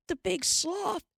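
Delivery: high alarmed cry; sudden realization; sudden exclamation. A narrator's reading. Pa realizes where Grace went, alarmed exclamation. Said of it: "he exclaimed".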